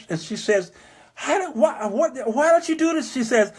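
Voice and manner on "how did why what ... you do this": higher, halting retold tearful daughter; mock weeping. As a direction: imitate an overwhelmed daughter stumbling over questions. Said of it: "just was weeping and crying".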